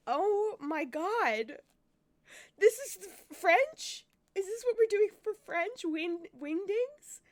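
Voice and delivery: high, loud exasperated outburst; loud disbelief. Real, not acted. Player seeing French shown as wingdings, loud disbelief. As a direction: exclaim in appalled disbelief.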